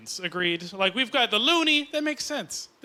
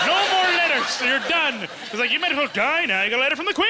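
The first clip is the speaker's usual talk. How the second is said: raised, loud opening into comic rant; mock exasperation; 4 semitones higher, 3 dB louder, faster than usual. Comic ranting that the letters stop, mock exasperation. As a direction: protest as if it's all over.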